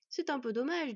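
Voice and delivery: mock regret. Teen lamenting before threatening killer, mock regretful. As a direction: feign polite disappointment. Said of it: "déplora l'adolescent".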